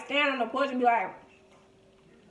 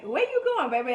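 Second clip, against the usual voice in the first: calling out; 3 semitones higher, 4 dB louder than usual. Retold or imitated. Calling after her.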